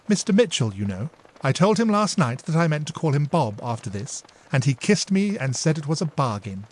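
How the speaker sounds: put-on a touch of a bubbly young girl; eager younger sister. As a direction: confide it eagerly. Dora tells her plan.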